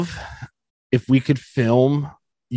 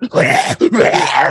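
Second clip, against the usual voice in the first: mock sleep noise. Telling cohost about late eating, mock roar. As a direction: imitate a noisy, troubled sleep. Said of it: "sleeping, I'm like".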